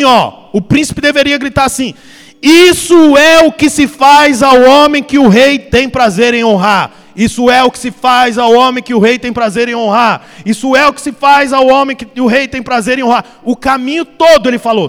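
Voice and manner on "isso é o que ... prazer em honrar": proclaiming shout. Acted. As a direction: call it out like a royal herald. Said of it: "o príncipe ia na frente gritando assim". (anúncio solene em voz alta)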